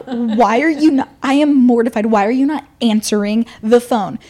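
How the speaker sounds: hammed-up exasperated demand; raging inside. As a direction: retell a five-year-old's indignation, emphatically. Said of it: "like, raging inside".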